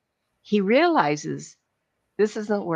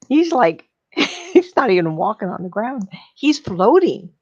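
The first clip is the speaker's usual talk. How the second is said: excited; 2 semitones higher, 6 dB louder than usual. Real, not acted. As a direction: lift it like you're floating on air. Joyful telling of dream gig.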